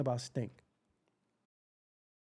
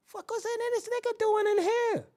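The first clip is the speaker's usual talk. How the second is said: disgusted reaction; 14 semitones higher than usual. Acted. Walking into smelly room, disgusted.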